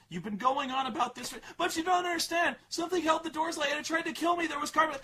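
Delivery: put-on high, pleading girl voice; upset daughter. Daughter pushing dad to listen, high pleading mock voice. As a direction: insist desperately as the teen. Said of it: "she's like".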